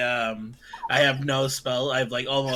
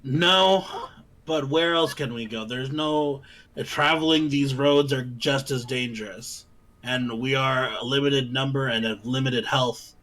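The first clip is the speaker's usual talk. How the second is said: firm insistent adventurer; firm character voice. Acted. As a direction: speak firmly, pleading for rest. Character argues with Ismark.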